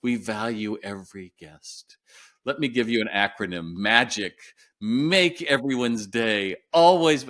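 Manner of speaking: a slow, hammed-up corporate trainer reciting a slogan; mocking a canned customer-service mantra. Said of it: "some guy that's like".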